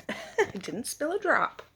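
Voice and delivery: high slow whispered giggle; giggly whisper. Real, not acted. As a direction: whisper it with a proud laugh. Proud not to spill.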